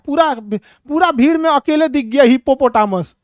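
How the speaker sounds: teacher loudly mocking a giggling student; scolding the class. Real, not acted.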